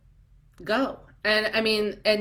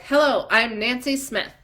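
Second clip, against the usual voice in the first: louder, self-assured hello; confident introduction; 4 semitones higher, 4 dB louder than usual. Retold or imitated. Seminar woman finally introducing herself, confidently. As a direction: stand tall and announce your name. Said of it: "until they're like".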